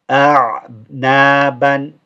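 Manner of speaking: A'naban said slowly, opening on a plain alif a, not the ayn; start on alif. Shown as a demonstration. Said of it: "you start with an alif".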